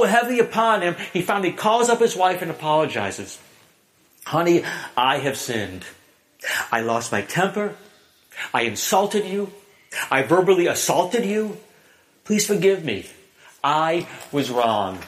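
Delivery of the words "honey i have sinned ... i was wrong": humble apology. Retold or imitated. Husband's repentant phone apology.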